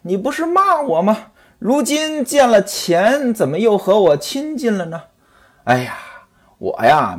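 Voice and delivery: husband sulking at his wife; lightly voiced aggrieved husband; a hint of a resentful husband; sulky husband. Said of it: "常志杰说了".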